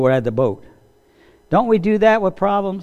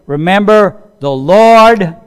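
rallying cry; 2 semitones higher, 6 dB louder, slower than usual. Acted. Quoting Nehemiah's rallying cry.

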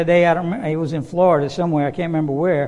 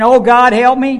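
loud, high cry for help; man sliding off a roof begging God, loud and high; desperate prayer; 6 semitones higher, 7 dB louder than usual. Retold or imitated. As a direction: call out to God mid-fall. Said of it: "he was praying".

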